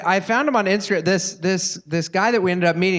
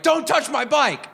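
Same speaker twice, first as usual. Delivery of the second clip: high, slow mock yell; retold yell; 8 semitones higher than usual. Drunk guy yelling at a bike thief, high and slow mock yell. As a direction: drag out a half-hearted warning. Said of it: "if you yell at someone".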